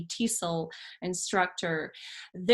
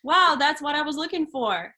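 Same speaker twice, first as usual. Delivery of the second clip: higher-pitched, mildly acted wow; recalled amazement; 6 semitones higher, 4 dB louder than usual. Student recalls finding her coach's channel, mildly amazed. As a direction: replay a pleased discovery, lifting the pitch. Voices own delighted reaction on discovery.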